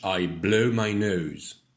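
"blow" and "nose" slowly, with gliding oh vowels; slow, careful "I blow my nose"; slow model sentence. Shown as a demonstration. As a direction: draw out the diphthongs in "blow" and "nose". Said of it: "Oh, les belles diphtongues".

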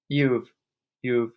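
halting build to a mild shriek. A narrator's reading. Mother accusing her husband, halting then mildly shrieked. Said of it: "shrieked the mother".

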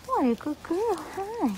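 high sing-song praise for the mare. Real, not acted. Praising the horse again.

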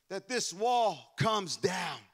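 slow, shouted declaration. Acted. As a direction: drive each word home slowly. Declaring wall comes down.

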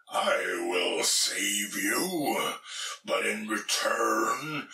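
slow, lightly voiced sea troll; a slow looming troll bargain. Sea troll speaks in story.

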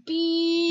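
loud sharp high beep; censor beep. Pretend. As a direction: bleep it out loud. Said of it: "when we censor, censor stuff".

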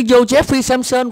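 high, exasperated echo of "Joseph Jefferson"; mocked mispronunciation. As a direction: throw back the botched "Joseph Jefferson". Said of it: "Cứ ... hoài".

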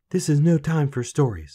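put-on loud, high, agitated girl; frantic rebuff. A narrator's reading. Queen to the lad near midnight, frantic.

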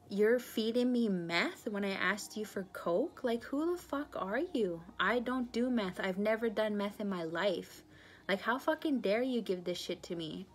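retold angry confrontation. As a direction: tear into her for lying about the drug. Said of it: "and I got mad".

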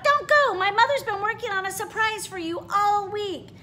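high and loud, eager; urgent plea. Acted. Clara begs Bronterina to stay, high and urgent. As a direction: stop her leaving, then rush the news.

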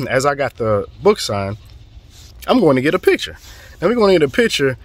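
normal talking voice

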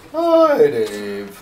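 a light sing-song greeting, voice cracking a little; sing-song church lady. Retold or imitated. Imitating the church lady's sing-song greeting to Dave. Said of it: "she had kind of a sing-song voice".

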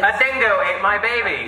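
slow, high mock Australian accent; hammed-up Australian accent line. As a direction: drawl it like a movie Australian. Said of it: "it's like an Australian accent".

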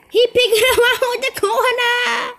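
high, loud laughing squeal; laughing disbelief. Real, not acted. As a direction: laugh it out in shock. Laughing at sneaky enemy.

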